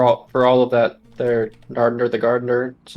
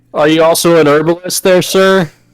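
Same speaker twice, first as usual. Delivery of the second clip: loud, high-pitched yell carried across distance; 5 semitones higher, 7 dB louder than usual. Repeating a question after being told to speak up: yelling. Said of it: "no need to yell".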